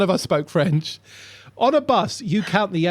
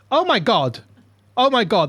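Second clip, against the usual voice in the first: higher, louder gasping disbelief; repeated stunned oh my God; real amazement; 5 semitones higher, 3 dB louder than usual. Real, not acted. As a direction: react to something huge. Reacting to picture.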